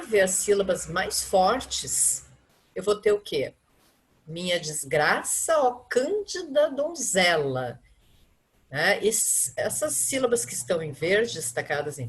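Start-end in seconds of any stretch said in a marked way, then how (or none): 4.3-7.8 slow, beats on "desgraça" and "cândida"; rhythmic stress. Shown as a demonstration. Teacher showing the poem's rhythm, slow and marked. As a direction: mark the strong syllables of the verse. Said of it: "elas são mais fortes".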